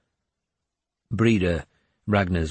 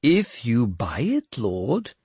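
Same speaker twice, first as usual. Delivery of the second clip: slyly; 3 semitones higher, slower than usual. Acted. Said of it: "he added slyly".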